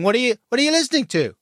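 high, loud and fast, mock chirpy question; overeager dad. Dad forcing chat with his son in the car, hammed-up chirpy. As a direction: play the keen dad trying too hard. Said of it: "And you're going".

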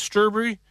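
"strawberry" as "stur-bree"; odd strawberry. Shown as a demonstration. Host asks if people say it, "strawberry" as "sturbree". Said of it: "Do people say it's".

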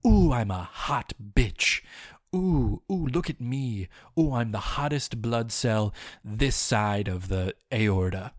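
strut and show off; hammed-up hot-girl boasting; sassy self-hype. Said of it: "You've got to go out and say".

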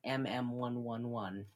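unvoiced whispered numerals; whispering. Real, not acted. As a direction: whisper it to yourself.

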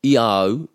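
"I au" run together as one glide; "I au" linked without a break; rolled together. Shown as a demonstration. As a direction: roll "I" straight into "au". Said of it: "we always wanna roll that together".

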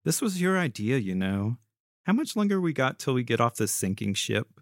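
low-pitched, sassy needling. Acted. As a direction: give it some sass, pitched low. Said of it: "Mimi asked sassily".

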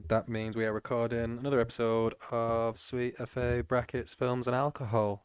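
slow flat robotic monotone; a flat machine voice, reading an intro; Siri voice. Pretend. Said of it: "Did you like my monotone voice?".

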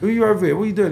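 loud demand. Retold or imitated. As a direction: fire the questions at him.

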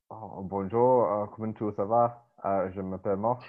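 simple French greeting in a light French accent with a thick Irish lilt; hesitant French with Kilkenny showing through. Shown as a demonstration. Showing co-hosts his French on request, Irish-tinged French accent. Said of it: "want me to put my French accent".

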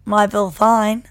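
loud, slow try at an Australian accent. Shown as a demonstration. Podcaster repeating the Australian accent hack, slow and loud. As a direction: push out a mock Australian twang. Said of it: "So this accent hack".

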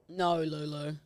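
mock-stern self-talk. Retold stern talk to herself.

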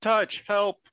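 high, loud mock cry for help; calling for help. Player calls Touch to help with the rope, acted shout.

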